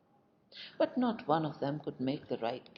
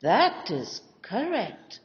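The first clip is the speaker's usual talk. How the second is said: slow, much louder, higher, ringing approval; delighted exclamation; 5 semitones higher, 10 dB louder, much slower than usual. A narrator's reading. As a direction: boom out your delight at the answer. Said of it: "exclaimed the landowner".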